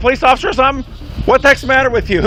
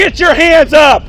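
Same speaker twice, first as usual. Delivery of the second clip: slow, emphatic police yell; shouted command; slower than usual. Real, not acted. Officer ordering a suspect's hands up, shouted command. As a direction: order it forcefully, dragging out the words.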